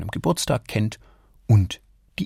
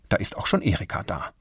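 ordinary delivery, nothing marked

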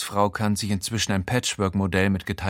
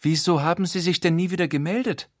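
higher, offended lady; a hurt society lady, higher voice; 8 semitones higher, faster than usual. A narrator's reading. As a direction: ask it wounded and reproachful. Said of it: "dann, gekränkt".

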